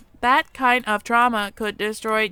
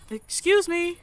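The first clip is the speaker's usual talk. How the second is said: put-on shy mouse girl calling; 8 semitones higher, slower than usual. Shy mouse tribeswoman calls out.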